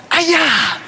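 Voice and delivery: high, loud karate yell; mock battle cry. The speaker launching his punch with a mock karate yell. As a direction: let out a hammed-up kung fu cry. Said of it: "And finally I went".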